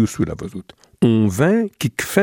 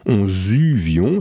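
slow and gentle; slower than usual. Shown as a demonstration. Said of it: "Se fait tout doux".

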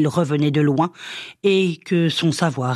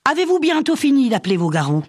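high, loud, fast angry rebuke; mother scolding the witch, fed up; 10 semitones higher, 3 dB louder, faster than usual. A narrator's reading. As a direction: snap at the witch to stop. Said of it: "Madeleine gronda".

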